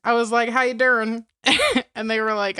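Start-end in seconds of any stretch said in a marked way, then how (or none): 0.5-1.2 lightly imitated Madea greeting; Madea catchphrase. Greeting a coworker with a Madea line, lightly imitated. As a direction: toss out a Madea-style "How you doing?". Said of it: "That's a Madea thing".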